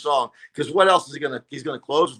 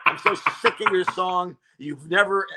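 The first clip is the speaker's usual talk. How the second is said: laughing mock tirade, pitched up; imagined rant; 5 semitones higher, 4 dB louder than usual. Comic telling off the headliner, laughing. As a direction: hurl the insults half laughing. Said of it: "many things I wanted to say".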